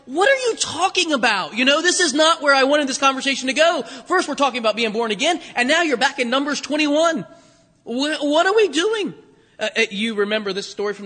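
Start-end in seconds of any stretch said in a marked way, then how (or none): 0.1-9.1 higher-pitched, incredulous protest; imitating an exasperated, confused listener; mock bafflement. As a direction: object as if the talk has gone off the rails. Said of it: "I can just see Nicodemus looking at him like".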